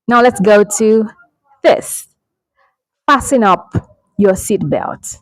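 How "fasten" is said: "Fasten" as FASS-en, no t; silent T. Shown as a demonstration. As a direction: say "Fasten" without any t. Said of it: "The letter T here is silent".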